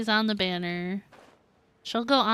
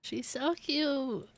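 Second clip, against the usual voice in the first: slow, drawn-out fond coo; adoring coo; 3 semitones higher, 4 dB quieter, slower than usual. Real, not acted. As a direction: melt over how cute someone is. Cooing over adorable game character.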